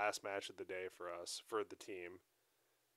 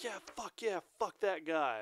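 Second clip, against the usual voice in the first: gloating coach; 9 semitones higher, 5 dB louder than usual. Retold or imitated. Rival coach gloating, quoted.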